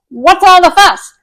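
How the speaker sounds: excited, rising. Real, not acted. Rhetorical hype questions.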